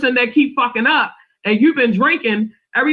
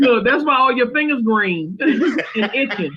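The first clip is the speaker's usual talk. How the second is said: laughing; slower than usual. Real, not acted. Teasing while laughing.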